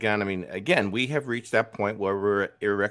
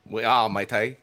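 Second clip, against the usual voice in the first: badly faked Aussie accent; dubious Australian accent. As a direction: have a clumsy go at Australian. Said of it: "what kind of accent is that?".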